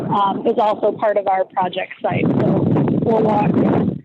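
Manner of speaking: talking over wind noise; in strong wind. Real, not acted. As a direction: voice buffeted by gusting wind. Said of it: "There's the wind".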